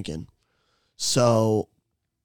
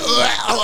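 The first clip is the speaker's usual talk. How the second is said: retching groan; 9 semitones higher, 6 dB louder than usual. Retold or imitated. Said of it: "throwing up almost".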